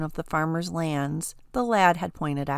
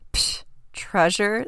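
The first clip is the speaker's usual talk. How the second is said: slow, sceptical psh; a doubtful sneer at the idea; scoffing; 2 semitones higher, slower than usual. Acted. Older brother mocking the dragon's treasure, slow scoff. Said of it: "the other human scoffed".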